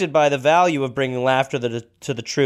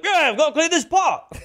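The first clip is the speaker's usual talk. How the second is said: higher silly voice, laughing; goofy Cooper; 12 semitones higher than usual. Retold or imitated. Cooper fobbing off the sergeant, higher silly laughing voice. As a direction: ham up Cooper's excuse with a laugh. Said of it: "he'd be like".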